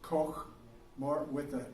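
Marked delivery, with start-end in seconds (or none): 0.0-0.5 Koch with a long "oh" and throaty German ending; German pronunciation. Shown as a demonstration. Teacher showing the class the original name, German pronunciation. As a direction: say Koch German-style, clearing the throat on the end. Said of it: "in German, they kinda clear your throat".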